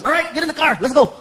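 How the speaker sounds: lightly voiced bossy friend; mock brisk order from a comic pal; imitating Paul Rodriguez. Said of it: "He shows up to the club and he says".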